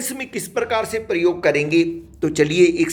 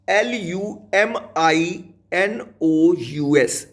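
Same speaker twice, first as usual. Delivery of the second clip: slow spelling; much slower than usual. Shown as a demonstration. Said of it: "दोबारा से spelling सुनिए".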